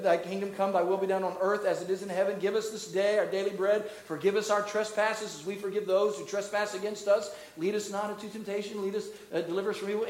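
understated, even recital of the Lord's Prayer; reverent prayer. Shown as a demonstration. Pastor showing the heart we go to the Father with, reverent prayer. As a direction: pray it humbly in an unbroken, measured flow. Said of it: "Anybody hear the heart that we go".

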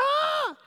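short high imitated shriek; mock scream. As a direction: squeal like she saw the snake. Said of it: "And she screamed".

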